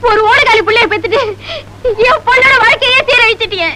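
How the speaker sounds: high, heated accusation; mother in a quarrel, accusing and high; accusing wail. Acted. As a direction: hurl the blame at her. Women quarreling.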